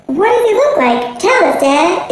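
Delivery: high, excited little voice; begging dad for the story; child's eager question. Acted. Child begs her father, high and excited.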